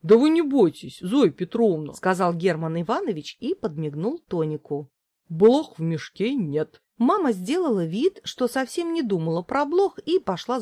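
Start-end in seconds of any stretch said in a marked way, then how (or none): 0.0-6.8 put-on jovial old man. Herman Ivanovich jokes, winks.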